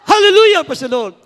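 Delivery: high, loud Hallelujah, dropping on Praise the Lord; congregational shout. Real, not acted. Pastor leading the jumping congregation in three shouts, congregational shout. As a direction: shout Hallelujah at full voice to lead the crowd. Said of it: "sumigaw ng Hallelujah, praise the Lord tatlong beses".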